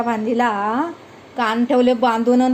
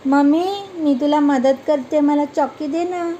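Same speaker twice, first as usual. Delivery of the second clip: put-on coaxing child; 3 semitones higher than usual. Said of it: "काय बोलतो आपण".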